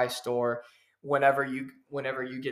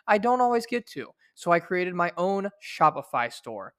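ad read. Acted. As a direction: sell the store like a radio spot. Reads an ad for merch store.

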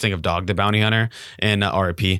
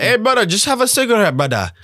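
high, louder mock Hawaiian accent; 13 semitones higher, 3 dB louder than usual. Imitating the TV bounty hunter offering a cigarette, Hawaiian accent. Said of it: "That's a good Hawaiian accent".

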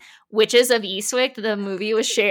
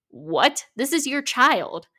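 higher-pitched, appalled protest; indignant disbelief; 4 semitones higher than usual. Real, not acted. Host appalled at a father refusing surgery, indignant. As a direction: take him to task in disbelief.

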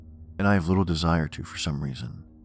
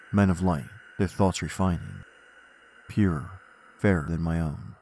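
poem recitation. Acted. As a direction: recite it with dark gravity.

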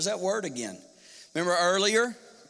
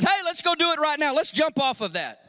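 reckless eager friend; 4 semitones higher than usual. Pretend. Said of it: "there's always one that says".

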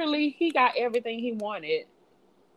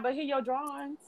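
high meek voice; 6 semitones higher, 10 dB quieter than usual. Retold or imitated. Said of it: "I know I lied".

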